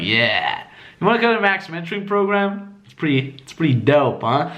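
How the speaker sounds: cool, casual invitation; smirking. Shown as a demonstration. Coach inviting guys to a program, casually smirking. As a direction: say it through a confident smirk. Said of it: "I'm like smirking".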